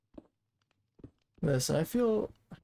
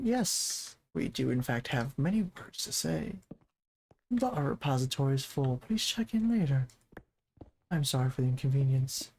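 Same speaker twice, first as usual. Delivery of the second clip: customer service voice. Retold or imitated. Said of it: "prey on the customer service voice".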